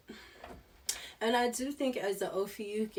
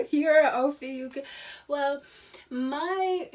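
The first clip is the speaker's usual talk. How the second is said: laughing; 6 semitones higher, 6 dB louder than usual. Real, not acted. Laughing outburst.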